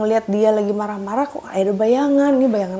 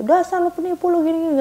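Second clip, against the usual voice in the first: higher, scornful name-calling; angry insult; 7 semitones higher than usual. Retold or imitated. Husband calling the technician a cheat, angry. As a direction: throw the insult after him.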